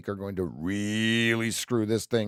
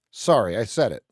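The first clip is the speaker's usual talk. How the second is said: ordinary talk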